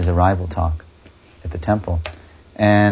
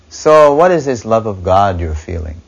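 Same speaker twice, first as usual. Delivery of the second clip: louder, pointed challenge; challenging tone; 6 dB louder than usual. Retold or imitated. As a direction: throw the question like a dare. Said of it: "a real kind of a challenging tone".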